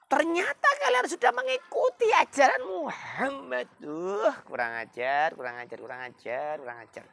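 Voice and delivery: very high, loud rage fading to a mutter; angry outburst. Acted. Umar rages at sister and her husband. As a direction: explode then seethe. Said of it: "sambil marah".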